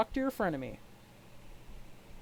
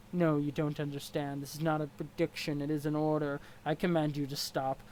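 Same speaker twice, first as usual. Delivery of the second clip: stiff, formal troll sneering at his rival; a lightly voiced haughty troll; 3 semitones lower than usual. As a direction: look down your nose at him. Equius troll voice.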